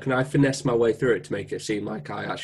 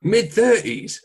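slow, high, loud disbelief; surprised; 9 semitones higher, 4 dB louder, much slower than usual. Real, not acted. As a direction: draw it out in disbelief. Disbelief at the age.

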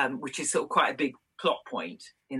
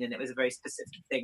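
ordinary talk

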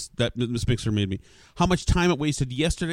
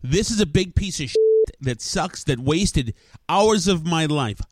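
mock commercial. Real, not acted. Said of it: "here's my commercial for Mackie".

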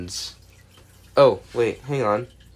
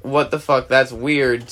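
mild what-the-heck puzzlement; mildly puzzled. Retold or imitated. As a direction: say it like it's just odd. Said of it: "this is where it goes from".

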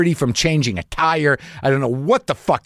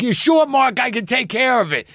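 eager fan voice; 9 semitones higher than usual. Retold or imitated. Fan insists on helping.

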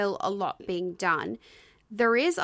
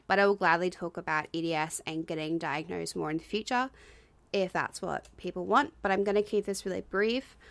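out of breath. Real, not acted. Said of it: "sorry if I sound out of breath".

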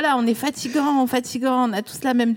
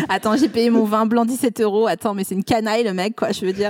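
blasé Parisian guy. Acted. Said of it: "Tu le fais bien, par contre".

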